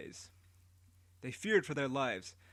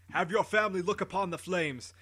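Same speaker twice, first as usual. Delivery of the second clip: louder, commanding king; cruel order; 4 semitones higher, 5 dB louder than usual. Acted. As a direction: order it coldly. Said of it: "Nimrod ordered".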